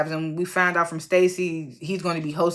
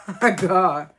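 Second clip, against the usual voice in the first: laughing oh my God; real laugh through oh my God. Real, not acted. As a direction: crack up in disbelief. Laughing reaction to scarecrow.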